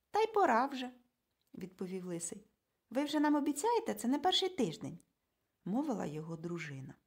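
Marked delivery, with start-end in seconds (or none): 0.1-0.9 a touch louder and higher, impatient; mild grumble. A narrator's reading. Impatient bald husband, mildly raised. 2.9-5.0 higher, louder complaint; mild reproach. A narrator's reading. Wife reproaching the man in glasses, raised voice.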